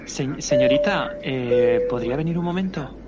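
loud, hurried call for attention. Acted. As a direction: call the stewardess loudly. Passenger calls the attendant.

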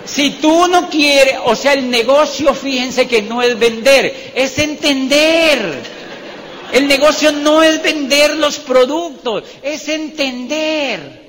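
loud, high, slow hammering of the point; emphatic proclamation. Real, not acted. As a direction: proclaim the lesson to a big room, drawing it out. Drives lesson home to audience. (proclamación enfática, fuerte y pausada)

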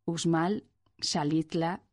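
Uxmal and Xalitla with sh for x; Mexican x as sh. Shown as a demonstration. Indigenous Mexican words still said with S H, x as sh. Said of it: "sigue pronunciándose S H".

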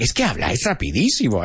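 fast quoted Spanish; quick mock protest; imitated complaint. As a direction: rattle off a student's complaint. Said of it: "So you're like".

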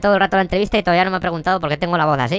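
high fluted creepy voice. Acted. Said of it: "como aflautada, pero de mal rollo".

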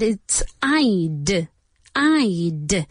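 "I'd" said as one clipped syllable; teacher demo of "I'd"; contracted I'd. Shown as a demonstration. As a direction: model the contraction "I'd" clearly. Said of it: "but contracted".

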